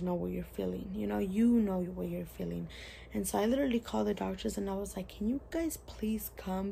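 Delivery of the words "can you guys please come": whispered plea. Retold or imitated. Quoting herself calling doctors.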